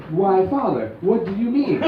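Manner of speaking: a prim, proper daughter; a hint of a prim, proper daughter. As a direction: ask it all prim and innocent. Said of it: "my future daughter is so much more proper".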